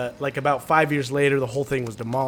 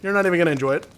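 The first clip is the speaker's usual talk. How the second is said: higher, louder dismissive dad; dad justifying; 6 semitones higher, 6 dB louder, faster than usual. Retold or imitated. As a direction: brush it off like a stubborn dad. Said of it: "He's like".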